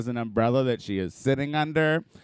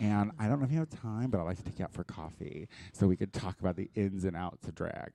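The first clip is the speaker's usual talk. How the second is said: timid fan voice; 6 semitones lower, 10 dB quieter than usual. Retold or imitated.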